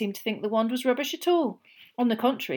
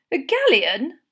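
mildly disappointed; 5 semitones higher, 7 dB louder, slower than usual. Acted. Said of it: "looked slightly disappointed".

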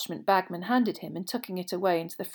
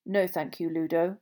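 impatient. Acted. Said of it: "a bite of impatience in his voice".

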